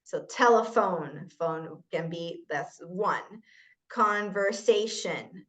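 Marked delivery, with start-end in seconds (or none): 3.9-5.4 "Conversation" slowly, syllable by syllable; separated syllables. Shown as a demonstration. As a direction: draw out each syllable of "Conversation". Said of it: "that's another word".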